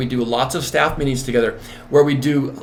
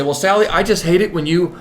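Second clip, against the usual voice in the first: Joe complaining; 6 semitones higher than usual. Retold or imitated. Joe asking Sally to say when she leaves the floor, lightly voiced. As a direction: make a mild plea to a colleague. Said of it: "Joe might say".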